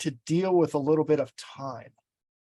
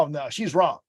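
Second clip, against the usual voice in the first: exclaimed inner thought. Shown as a demonstration. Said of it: "When you stop and say".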